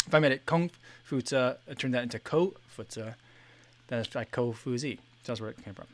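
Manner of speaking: chewing ice while talking; ice in mouth. Real, not acted. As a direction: talk around crunching ice. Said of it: "Sorry, I'm chewing on ice".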